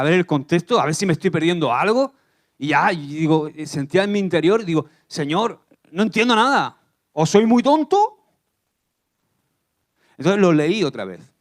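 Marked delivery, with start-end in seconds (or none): 5.1-8.2 exasperated plea. Retold or imitated. Pleading with God, confused.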